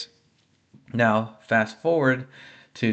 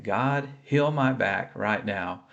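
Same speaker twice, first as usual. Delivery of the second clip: earnest prayer; 2 semitones lower, 4 dB quieter, slower than usual. Retold or imitated. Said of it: "calling out and saying".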